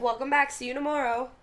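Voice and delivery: high, sugary customer-service greeting; saccharine voice. Pretend. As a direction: greet them sickly sweet, slightly high. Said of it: "In, like, a super, like, saccharine voice".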